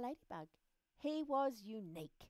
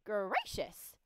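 loud exclamation of wonder; admiring ladybug; 6 dB louder than usual. Acted. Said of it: "admired the ladybug".

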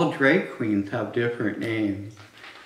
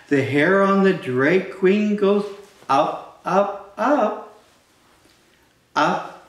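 loud sing-song storytime read; climbing on each up; reading to children; 5 semitones higher, 4 dB louder, slower than usual. Acted. Reading picture book aloud to kids.

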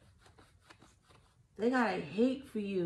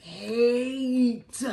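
"hate" louder with a falling tune; stressed word; 3 semitones higher, 7 dB louder than usual. Shown as a demonstration. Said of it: "emphasis on the".

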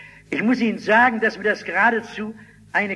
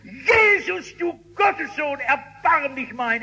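desperate shouting; 7 semitones higher, slower than usual. Acted. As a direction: call out desperately over the crowd. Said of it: "Er brüllt nur noch mehr".

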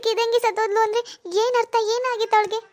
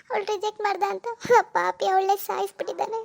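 crying. Acted. Wife tells husband of murder.

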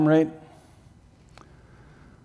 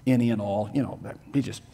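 mock reinterpreter; 3 semitones lower, faster than usual. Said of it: "I've heard that kind of nonsense".

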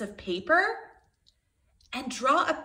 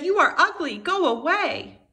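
higher, louder mean taunt; mean ducks; 7 semitones higher, 6 dB louder than usual. Acted. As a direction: sneer it like bullying ducklings. Mean ducks voiced in story.

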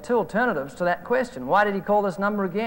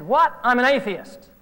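higher and louder, a startled objection; indignant surprise; 4 semitones higher, 3 dB louder than usual. Retold or imitated. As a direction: bristle as if the claim is absurd. Caller objecting on the phone.

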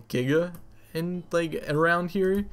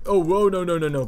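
alarmed shout; 4 semitones higher, 7 dB louder, faster than usual. Real, not acted. Creature steals his meat.

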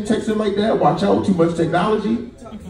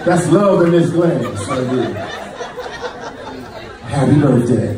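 sweet romantic pitch; 4 semitones lower than usual. Retold or imitated. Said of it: "You just".

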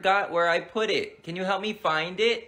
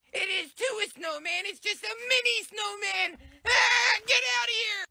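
put-on defensive little boy; 13 semitones higher than usual. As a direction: insist it's a real snowman. Kid defending snowman.

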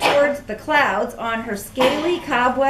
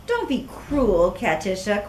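scolding; 3 semitones lower than usual. Acted. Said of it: "Cornelia scolded".

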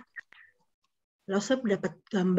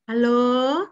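higher-pitched coaxing mom voice; mother waking child; 5 semitones higher than usual. Acted. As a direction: gently chivvy a sleepy child out of bed. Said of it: "Kalau dibangunin mamanya langsung bangun ya".

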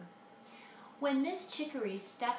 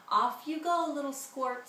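cheerful call; 5 semitones higher, 5 dB louder than usual. Acted. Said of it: "said Papa".

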